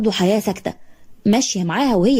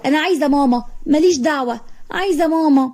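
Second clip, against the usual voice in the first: put-on higher tearful child's wail; crying for mama; 5 semitones higher than usual. Little girl crying for her mother to her father. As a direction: stamp and whine for mama. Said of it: "تدبدب في الأرض وتعيط وتقول".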